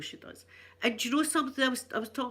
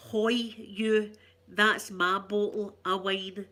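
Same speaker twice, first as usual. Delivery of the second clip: slow, broad Glasgow ned calling out; hoy it out like a Glasgow ned; Glasgow street accent; 3 dB louder, much slower than usual. Shown as a demonstration. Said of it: "you need the basics for wee Ned talk".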